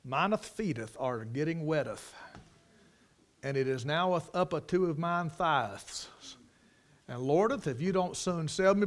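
mock pious prayer. Preacher imagining sinking Peter's wordy prayer, mock pious. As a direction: parody a long-winded formal prayer, lingering on each phrase. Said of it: "And he said".

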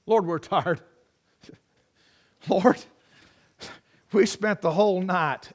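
a touch of weary whining; tired complaining. Retold or imitated. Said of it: "Can you kind of hear the tone of his voice?".

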